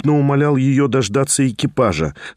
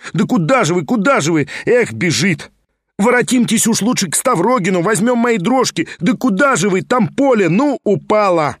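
calling after her; 6 semitones higher than usual. A narrator's reading. Pyotr chases fleeing Liza.

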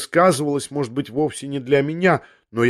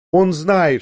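"Он знает" burst out loud and higher, falling on "он"; exclaiming; 5 semitones higher, 5 dB louder than usual. A narrator's reading. Woman suddenly cries out, half to herself, loud and high. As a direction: blurt it out as if to herself. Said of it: "воскликнула она вдруг опять".

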